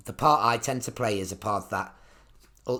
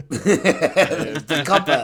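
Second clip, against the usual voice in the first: imitating the copper; 4 semitones higher, 8 dB louder, much slower than usual. Quoting Allo Allo policeman.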